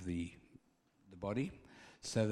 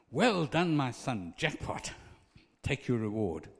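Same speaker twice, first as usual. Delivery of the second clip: hearty praise; 2 semitones higher, 5 dB louder than usual. Acted. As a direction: celebrate the servant's reward. Jesus rewards the servant.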